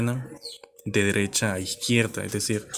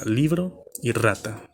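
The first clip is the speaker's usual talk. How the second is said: "libro y rata" with LI and RA stressed; stress on penultimate syllables; slower than usual. Shown as a demonstration. Teacher giving two example words, stress on LI and RA. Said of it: "Su mayor fuerza de voz va en la penúltima sílaba".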